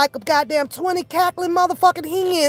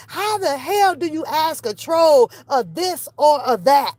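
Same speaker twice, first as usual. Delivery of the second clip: usual speaking voice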